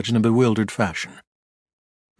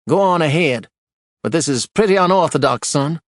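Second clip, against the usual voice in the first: louder, higher judge's warning; stern judge; 6 semitones higher, 4 dB louder than usual. A narrator's reading. Judge allowing Archer to proceed, stern. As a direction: grant it but warn him.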